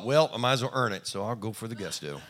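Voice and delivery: put-on cheeky kid, amused at his own daring; laughing defiance. Boy deciding a whooping is worth it, laughing. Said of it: "I thought".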